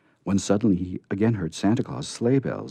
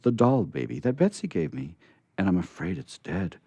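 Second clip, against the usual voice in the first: sobbing; 5 semitones higher than usual. Acted. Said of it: "poor Jimmy Scarecrow sobbed".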